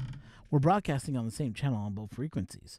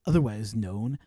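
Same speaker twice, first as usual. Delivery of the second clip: movie intro voice; 3 semitones lower, 4 dB louder than usual. Shown as a demonstration. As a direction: announce it like an epic movie trailer, pausing between phrases. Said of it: "Do a movie intro".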